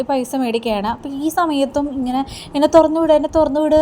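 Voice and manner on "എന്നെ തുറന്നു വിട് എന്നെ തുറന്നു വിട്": mock scream. Locked-up mother screaming to be released, a mild mock yell. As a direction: lightly voice the locked-up woman's scream. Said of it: "അലർച്ച നമ്മുടെ രേവതി കേൾക്കുന്നുണ്ട്".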